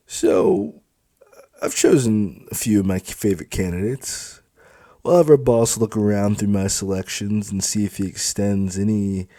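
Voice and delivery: smug, loud club supervisor; brash supervisor. Acted. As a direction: lord it over the recruits. Felix speaks to recruits.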